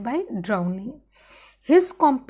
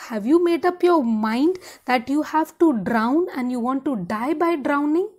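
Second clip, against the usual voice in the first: exasperated retort; 3 semitones higher, 4 dB louder, faster than usual. Retold or imitated. Boatswain scolding the nobles.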